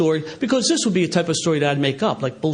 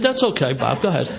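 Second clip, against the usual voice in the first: laughing; 2 semitones lower than usual. Retold or imitated. Friends' reply retold laughing.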